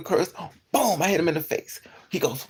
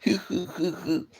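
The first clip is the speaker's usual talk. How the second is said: imitated laugh. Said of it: "He laughing".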